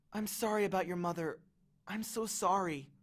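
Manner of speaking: soft, sincere condolence; tender apology. Acted. Annabeth consoles Percy about his mother, soft and sorry. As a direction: apologise softly and gently.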